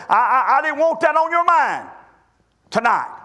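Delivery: mildly tearful mock apology; tearful mother. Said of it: "tears coming down her face".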